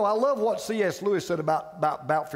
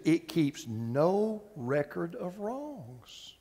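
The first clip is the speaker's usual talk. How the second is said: slow emphatic reading; 5 semitones lower, 5 dB quieter, much slower than usual. Real, not acted. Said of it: "I love this one".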